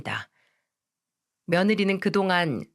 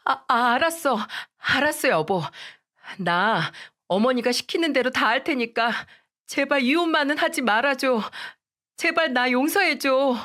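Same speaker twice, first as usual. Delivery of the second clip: put-on higher, tearful-sounding young wife begging; a young wife pleading, voice pitched up; pleading daughter-in-law; 5 semitones higher than usual. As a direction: beg your mother-in-law not to force a divorce. Wife gives in to husband.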